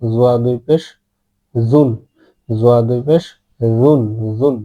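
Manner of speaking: soft Arabic Zwa sound in জুন; soft pronunciation. Shown as a demonstration. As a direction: spell out জোয়া, then say জুন softened. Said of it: "নরম করবেন".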